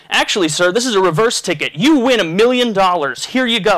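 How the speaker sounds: mock prize announcement. Imagined cop announcing a jackpot prize.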